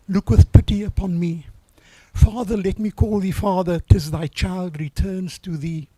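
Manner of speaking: earnest hymn reading with a sung line; reading a hymn verse. Acted. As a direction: read the anthem like a prayer. Reads his anthem verse aloud.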